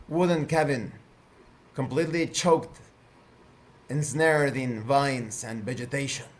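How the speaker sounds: measured, deliberate scene setting; game master narration. Acted.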